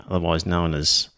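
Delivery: usual speaking voice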